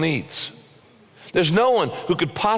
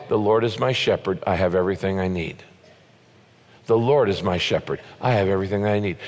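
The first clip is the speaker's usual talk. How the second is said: calm affirmation; 5 semitones lower than usual. Shown as a demonstration. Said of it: "you need to pause and say".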